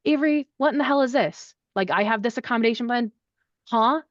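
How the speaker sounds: a hint of an exasperated professor; mock a faculty member barging in; lightly voiced annoyed faculty; imitating upset faculty. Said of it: "they say".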